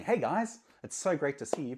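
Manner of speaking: over-the-top cheerful channel intro, mocked; mock YouTuber greeting. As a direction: play a fake-cheery "hey guys" host. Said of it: "I'm not saying".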